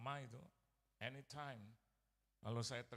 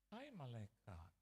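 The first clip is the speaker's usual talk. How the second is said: fond greeting; 2 semitones lower, 3 dB quieter, slower than usual. Retold or imitated. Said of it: "Saya dipanggil malaikat".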